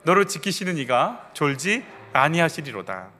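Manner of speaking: measured psalm recitation with deliberate phrase breaks; scripture recitation. Acted. Pastor leading a last shared confession of God as keeper, scripture recitation. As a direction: declare it steadily, phrase by phrase.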